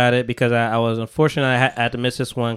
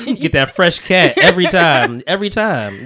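hard sell ad; 3 semitones higher, 4 dB louder than usual. Acted. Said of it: "like, an infomercial".

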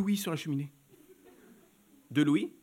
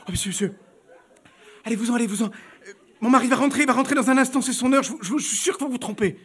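pleading; 4 semitones higher, 3 dB louder than usual. Acted. Wife pleading in retold scene.

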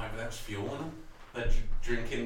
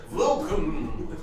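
Dracula voice; 8 semitones higher, 7 dB louder than usual. Acted. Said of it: "He sounds like fucking Dracula".

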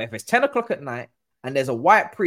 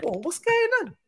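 mock shock. Acting out the group's shocked reaction.

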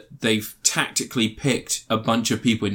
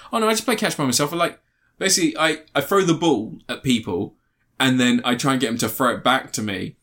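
goofy character voice. Retold or imitated. Retelling comedy scene, character voice.

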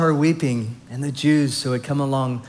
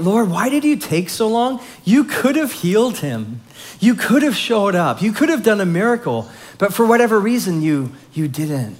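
higher, pained pleading to the Lord; anguished questioning; 5 semitones higher than usual. Retold or imitated. Grieving sister asks Jesus why he came late, pained and pleading. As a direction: plead with him like a broken-hearted sister. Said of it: "She's like".

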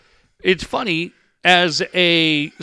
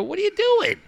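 mock yell; 11 semitones higher, 5 dB quieter than usual. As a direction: playfully act out yelling at her. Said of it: "But I did yell at her".

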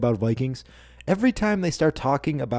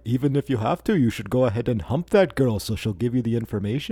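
lightly put-on Viking English accent; attempted Viking English accent; 2 semitones lower than usual. Host quoting a show character, wobbly Viking English accent. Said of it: "I don't know what accent that is".

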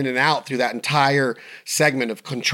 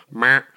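deer grunt imitation; 5 dB louder than usual. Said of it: "they go".

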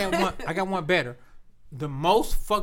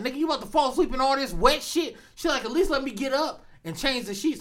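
a hint of a girlfriend voice; 9 semitones higher than usual. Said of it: "And she was like".

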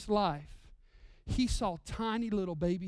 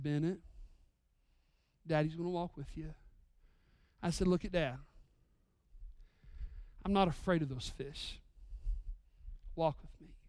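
gentle reassuring dad; 5 semitones lower, 7 dB quieter than usual. Retold or imitated. Dad comforting scared son.

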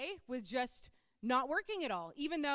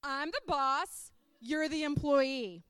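slow, deliberate imitation of a boss; boss asserting rank; 4 dB louder, slower than usual. Boss to reporter quoting the handbook, slow and firm. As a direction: spell out the rank word by word, slowly. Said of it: "And he was like".

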